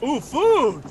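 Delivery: high, loud, eager cry at the grub; a sudden hungry squeal; excited about food. Acted. Party spotting the grub, squealing with delight. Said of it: "They're like".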